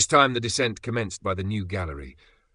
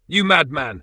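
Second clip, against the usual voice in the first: higher and louder outburst; shouting; 7 semitones higher, 8 dB louder than usual. A narrator's reading. Axel shouting at his uncle, furious. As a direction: fling it at him in anger. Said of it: "I shouted".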